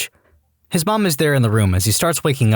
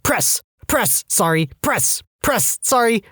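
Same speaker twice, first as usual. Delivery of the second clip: high, rapid pressing cries with apologies; frantic apologetic counting; 10 semitones higher, slower than usual. Retold or imitated. CPR on a conscious patient.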